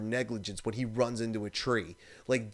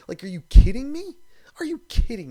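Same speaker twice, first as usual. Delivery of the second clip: loud and high, outraged; exasperated shout; 9 semitones higher, 13 dB louder than usual. Real, not acted. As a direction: yell it in disbelief at the idiot. Ranting about rude skier.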